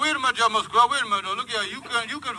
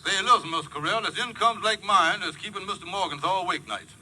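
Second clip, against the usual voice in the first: Kingfish voice. Acted. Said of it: "Kingfish speaking".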